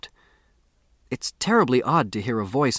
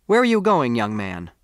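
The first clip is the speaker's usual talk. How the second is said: fierce call; 4 dB louder than usual. Acted. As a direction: snap the question at him like a stern old lady. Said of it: "She turned fiercely upon me".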